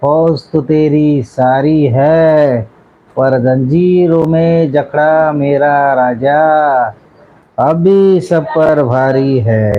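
very slow, dramatic declaiming; weighty, measured recital of heroic lines; film dialogue. Acted. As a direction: deliver it like a grand screen monologue, each phrase drawn out. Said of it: "लय भारी dialogue बोलतो तो".

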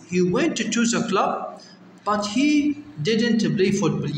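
very slow, word by word, went and didn't stressed; slow model reading. Shown as a demonstration. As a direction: read it out slowly for the class. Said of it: "models the sentence".

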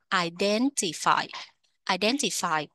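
"identify" with the beat on DEN; second-syllable stress. Shown as a demonstration. Teacher repeating it for learners, stress on DEN in "identify". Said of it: "nhấn âm hai".

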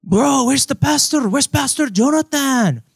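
high-pitched searching question; acted asker. Acted asker in pointing skit.

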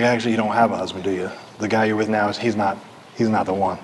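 low, soft, matter-of-fact; non-judgmental truth. Acted. Jesus gently telling the woman the truth, matter-of-fact. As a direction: break it to her quietly, without snark. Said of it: "He just told her the truth".

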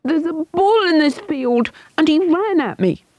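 put-on high boy calling down from the tree; shouting back. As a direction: shout down the news of the bull. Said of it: "shouted back the boy".

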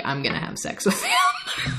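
squeaky falsetto mock line; mock high voice. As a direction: send it way up high in a silly squeal. Mocking nurse's inner thoughts.

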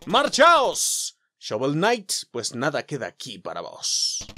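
a dark knight ordering the hero away; commanding knight. Acted. Black Knight ordering Shovel Knight off, commanding.

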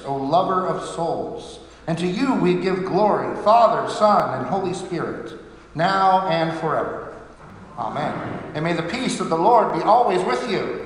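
solemn, measured priestly prayer; liturgical prayer. Real, not acted. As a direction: pray it formally, phrase by phrase. Says closing prayer and blessing.

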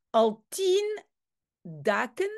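the general's broken Dutch, mock Spanish; Spanish-accented Dutch. Teacher reads the general's Dutch with a Spanish accent. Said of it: "ça doit être dagen weg".

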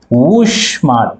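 ఊష్మాలు stretched slowly; slow drawn term. Shown as a demonstration. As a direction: draw out ఊష్మాలు for the class. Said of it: "అందుకే ఇవి". (ఊష్మాలు నెమ్మదిగా సాగదీసి)

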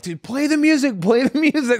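high mock-manic plea breaking into laughter; hammed-up high, giggly urging; retold manic laughing. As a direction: imitate yourself cackling as you call out. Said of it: "I'm, like, maniacally laughing".

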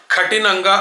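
కఠినంగా as KHA-tinanga, unaspirated t; faulty కఠినంగా, breath moved onto the first syllable; mispronounced aspirated kha. Shown as a demonstration. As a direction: hit a wrong breathy kh in కఠినంగా. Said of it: "అట్లా కాకుండా".

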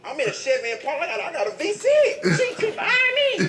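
cracking up telling the chase; laughing. Real, not acted. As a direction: laugh harder each line.

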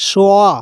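সোয়া pulled out alone as swa; isolated swa. Shown as a demonstration. Teacher isolates সোয়া for students, wa sound. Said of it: "ওয়ার মতো উচ্চারণ হচ্ছে".

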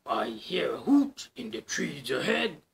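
hushed monster whisper; whispering Gruffalo. Acted. Gruffalo warns the mouse, hushed whisper.

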